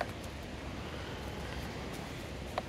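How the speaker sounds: coughing on a swallowed bug; hacking cough after a bug. Real, not acted. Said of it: "Sorry, I ate a bug".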